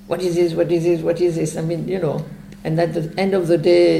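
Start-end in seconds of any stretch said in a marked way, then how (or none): 0.1-1.6 rote, monotone repeating without pauses; mantra-like repetition. Acted. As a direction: churn it out like an empty mantra. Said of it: "the point is not to sit there".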